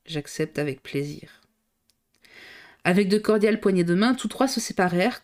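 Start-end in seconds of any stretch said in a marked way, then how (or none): 0.1-1.4 quiet acceptance. A narrator's reading. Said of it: "sans hésiter, il répondit".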